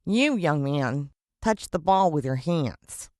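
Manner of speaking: slow, deliberate accusation; teacher accusing a boy of handball, slowly; stern referee teacher. Acted. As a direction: drag each word out sternly.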